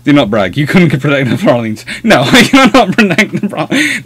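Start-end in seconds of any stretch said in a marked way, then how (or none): 2.0-4.0 real laugh breaking through, high voice; laughing protest. Real, not acted. Answering a teasing viewer, laughing protest. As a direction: protest through giggles, pitched up. Laughs while reading the tease back.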